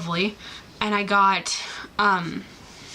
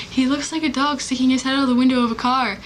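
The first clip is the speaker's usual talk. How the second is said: quick, slightly higher retold exclamation; friend's excited remark; 4 semitones higher, 3 dB louder, faster than usual. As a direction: rattle off an amused observation, pitched up. Retelling friend's remark at concert.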